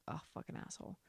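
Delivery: hushed unvoiced aside; whispered curse. Real, not acted. Cursing the husband under her breath.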